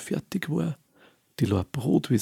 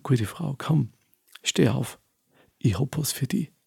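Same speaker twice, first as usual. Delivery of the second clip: friendly. Acted. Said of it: "freundlich angeredet".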